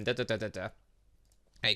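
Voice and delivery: ordinary talk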